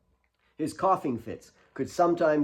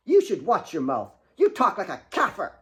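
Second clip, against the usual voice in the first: snide; 6 semitones higher than usual. Acted. Claire quarrels with Kate.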